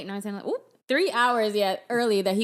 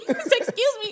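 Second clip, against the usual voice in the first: sassy; 13 semitones higher than usual. Real, not acted. Mock indignation.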